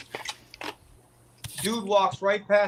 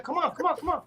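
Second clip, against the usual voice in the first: retold goading; 10 semitones higher, 4 dB quieter, faster than usual. Re-enacting goading his attacker.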